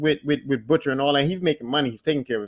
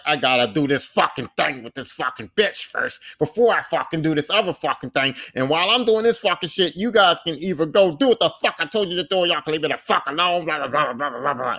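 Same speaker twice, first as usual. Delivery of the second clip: mock angry rant. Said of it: "he's just so angry".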